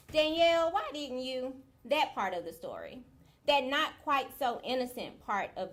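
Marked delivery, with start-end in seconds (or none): 0.1-1.5 high, louder mock scolding; imitated reproach. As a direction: call the name out high, reproachfully. Voices the reproach she dreaded.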